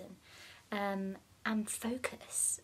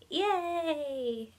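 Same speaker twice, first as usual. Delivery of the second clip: higher, quick breathy yay; little cheer; 7 semitones higher, 4 dB louder than usual. Real, not acted. Vlogger announcing she is now full vegan, small excited cheer. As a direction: celebrate the news.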